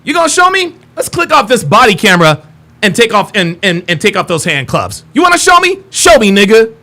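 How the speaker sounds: hammed-up tough cop; taunting cop. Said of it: "they'll be like".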